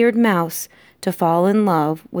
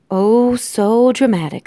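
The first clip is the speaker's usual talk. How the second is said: slow, drawn-out higher voice; mocking disdain; 4 semitones higher, 4 dB louder than usual. Antoinette dismisses her husband's rant, mocking. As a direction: stretch it out with weary scorn. Wife mocks husband's outburst.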